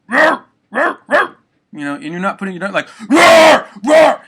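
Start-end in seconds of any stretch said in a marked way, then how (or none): 0.1-1.4 very high, loud, barking roar without strain; controlled dog bark. Shown as a demonstration. Showing the right amount of force, controlled barking roar. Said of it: "You don't have to do a lot of force". 3.1-4.2 very high, very loud yelled roar; full yell roar. Shown as a demonstration. Showing what not to do, full-force yelled roar. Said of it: "You're not yelling at the top of your fucking lungs".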